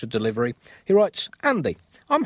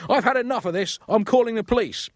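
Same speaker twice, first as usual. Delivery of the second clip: higher, louder hammed-up outburst; mock fury; 10 semitones higher, 4 dB louder than usual. Griffin threatening the farmer with police, hammed-up fury. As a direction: blast it in comic porcine fury. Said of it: "blasted Griffin, moustache quivering with porcine fury".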